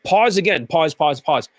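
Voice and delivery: mildly droning imitation with pauses; mock monotone, word by word; mock monotone speaker. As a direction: lightly imitate a halting monotone talker. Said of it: "they're very monotone".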